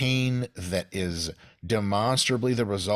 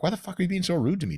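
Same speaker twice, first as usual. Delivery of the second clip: mock outrage; 10 semitones higher, faster than usual. Imitating patient offended by doctor.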